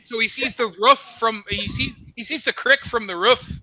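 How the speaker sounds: lightly put-on Canadian with a tagged "eh"; Canadian accent. Streamer jokes about the American, Canadian accent. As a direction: keep up the comic Canadian mode. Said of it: "You're still in Canadian mode".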